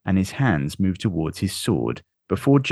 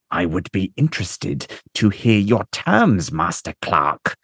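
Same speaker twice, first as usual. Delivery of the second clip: speaking through gritted teeth. Acted. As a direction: force the words through clenched teeth. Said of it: "says through gritted teeth".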